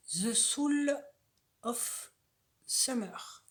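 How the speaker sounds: English with a French accent; careful, halting English in a French accent; non-native English accent. Real, not acted. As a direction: read the English title slowly, word by word, French-accented. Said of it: "Désolée pour mon accent".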